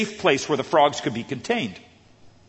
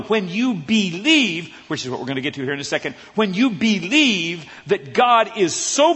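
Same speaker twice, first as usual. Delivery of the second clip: building preach; 5 semitones higher, 4 dB louder than usual. Real, not acted. Preacher rallying the congregation, rising louder. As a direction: build the sermon to a rousing peak.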